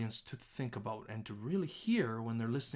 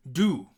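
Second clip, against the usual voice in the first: "Do" alone, punched loud; isolated word; 2 semitones higher, 8 dB louder than usual. Shown as a demonstration. Teacher breaking the line down, loud isolated word. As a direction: pop out "Do" as a single word. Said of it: "let's break it down".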